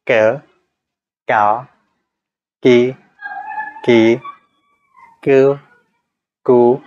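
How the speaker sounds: क, का, की, कु said one by one with the face stretched wide; slow syllable drill, cheeks stretched. Shown as a demonstration. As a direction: stretch the face and step through क, का, की, कु slowly. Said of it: "जैसे क की practice कर रहे हैं".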